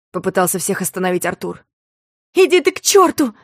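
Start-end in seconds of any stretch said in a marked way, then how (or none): 2.3-3.3 громкий злой крик; крикни ему в лицо. A narrator's reading. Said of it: "крикнула она ему". (злой выкрик)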